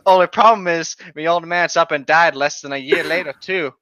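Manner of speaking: reading the fanfic in a hammed-up Aussie accent. Reading the stepmom fanfic aloud in an Aussie accent. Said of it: "why are you voicing someone with an Aussie accent".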